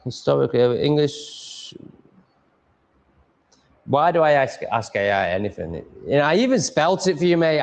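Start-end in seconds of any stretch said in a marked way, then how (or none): none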